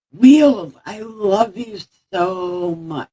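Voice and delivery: "Wheels" called high and loud, then "I love you so much" slow with careful lips. Shown as a demonstration. Streamer testing his S sound on his pet Wheels, careful slow lips. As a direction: hold the lips tight to get the S right in "so much". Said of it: "Look, I said the S".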